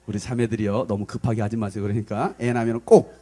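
low, settled reassurance; calm advice. Real, not acted. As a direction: drop low and counsel patiently. Calming advice after mock rant.

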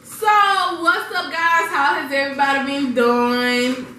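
excited. Real, not acted. Bright intro to viewers.

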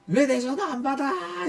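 high, stretched imitation of a complaining caller; mock angry demand. Former boss demands why calls go unanswered, mock-irate. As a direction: mimic her high-pitched nagging.

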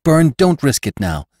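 high, urgent protest; alarmed pleading. Acted. Jane begs Venters not to go.

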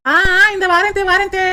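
daughter-in-law shouting back to mother-in-law; calling back. Acted. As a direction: call back that you're coming. Answering the call.

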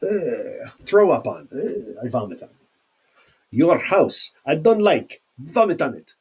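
hammed-up disgust, ugh and retching on the words; mock disgust. Teacher acting disgust to show the sign detest. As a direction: act grossed out by the house.

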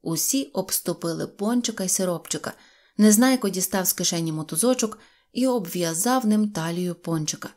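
plain reading voice

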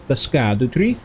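tentative Nordic accent, open "skah-doo"; a light Nordic lilt, rising at the end. Shown as a demonstration. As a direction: try SKADOO in a Nordic accent, questioning. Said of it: "saying it in, like, a Nordic accent".

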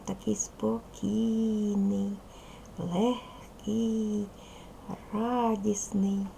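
slow, lingering on each adjective; unhurried, with pauses between the words; calm, drawn-out. Shown as a demonstration. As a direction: stretch each mood word out gently. Teacher models the poem's calm mood.

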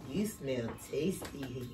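low, soft purring cat voice; sly cat. Acted. Hungry cat tempts the gingerbread boy in a low purr. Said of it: "heard the cat".

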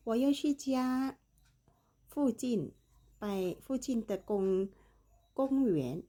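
very slow, word by word; slow Chinese. Shown as a demonstration. Teacher to Thai students, slow careful Chinese. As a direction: spell out each word for the learner. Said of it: "slow Chinese demo in dialogue".

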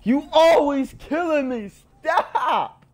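high, slow mock whine. Complaining to his teammate, high mock whine. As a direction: whine it like a kid who keeps getting shot. Whining at the teammate who kills him.

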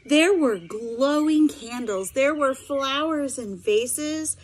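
lively read-aloud voice with sound effects; story narration. A narrator's reading. Teacher reading a picture book to her students, animated storytelling.

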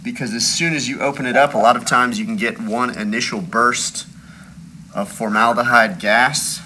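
muffled by a face mask; speaking behind a mask; through a face mask. Real, not acted. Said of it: "I'm wearing a mask right now".

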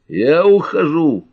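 high, loud, drawn-out parting shout; angry bark. A narrator's reading. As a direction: announce it furiously, stretching the words. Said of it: "сердито рявкнул он".

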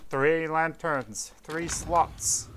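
put-on slow old-time radio announcer voice; 1930s radio announcer. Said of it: "Just nineteen thirties radio announcer".

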